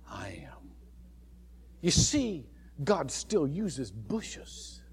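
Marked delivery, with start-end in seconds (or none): 0.1-0.7 whispered, low and hushed; quiet whisper. Acted. God's voice from the autumn bushes, whispered. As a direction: breathe it like God speaking softly from the bush. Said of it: "God's voice quietly say".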